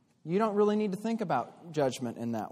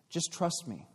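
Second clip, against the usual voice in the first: serpent whispering; 3 semitones higher, 4 dB quieter than usual. Acted. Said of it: "the serpent whispered".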